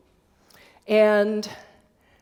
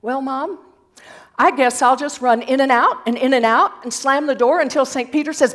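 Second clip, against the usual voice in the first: put-on little boy answering mom; 4 semitones higher, 8 dB louder, faster than usual. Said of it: "He thought about it for a minute".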